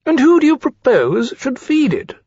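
high, incredulous question; scornful challenge. Acted. Rankin challenges Lawrence over feeding the hatchling, scornful. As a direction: throw it back haughtily.

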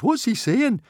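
high, loud, worried squeal; shivery alarm. A narrator's reading. Swimmer asking about dragon's words, shivering with worry. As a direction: demand to know, frightened. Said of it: "shivered Fishlegs".

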